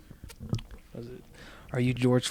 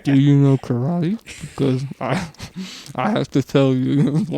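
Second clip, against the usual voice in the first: loud; 2 semitones higher, 9 dB louder than usual. Pretend. Delivering pickup line.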